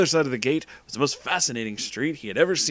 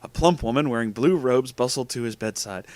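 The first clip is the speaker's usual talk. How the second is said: ordinary delivery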